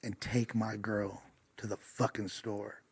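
put-on slow, dragged-out drunk guy; slurred drunk demand. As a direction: drag the words like a drunk boyfriend. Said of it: "this guy says".

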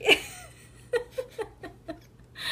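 high, helpless tearful laughter; real laughing fit. Real, not acted. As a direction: laugh high, on the edge of crying. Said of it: "Why are you laughing?".

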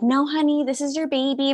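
lightly voiced condescending nurse; mock nurse. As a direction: talk down sweetly like a nurse. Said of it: "she's like".

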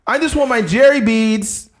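high, slow mock girly voice; mocking guest. Guest on Jerry begging for beads, high mock voice. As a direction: draw it out in a high put-on voice. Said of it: "the chicks would just show their tits like".

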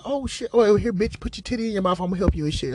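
squeaky high-pitched mock panic. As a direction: jump way up into a squeaky yelp. Teller acts his own excited reaction.

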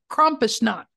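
Krampusnacht said crisply with sh; proper Krampusnacht with sh; pronounced correctly. Shown as a demonstration. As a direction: announce Krampusnacht with care. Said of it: "let's pronounce it correctly".

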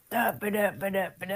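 soft sung-out da-ba-da riff; mimicked drum-riff babble. Storyteller mimics the drummer strolling in, soft scatted babble. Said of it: "he's all like".

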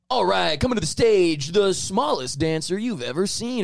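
slow booming stage announcer. Retold or imitated. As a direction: announce it like a club emcee. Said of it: "they were like".

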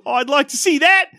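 high-pitched mock British maid; fake British accent. Maid daring the others, in a fake British accent. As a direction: taunt in a hammed-up British accent. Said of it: "She's doing a fake British accent".

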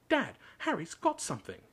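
Dudley voice. A narrator's reading. Dudley telling on Harry.

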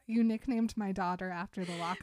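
lightly hammed-up angry dad scream; loud deep scream. Father yelling at Edward over the daughter's nickname, mock loud scream. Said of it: "loud, deep voice screaming".

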